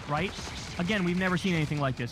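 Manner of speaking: ordinary delivery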